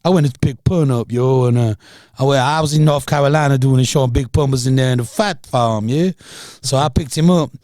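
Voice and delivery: put-on a light New York rapper accent; understated rapper's accent. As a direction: tell it like the rapper would, New York style. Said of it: "I'll stop doing the accent 'cause it's a bit cringe".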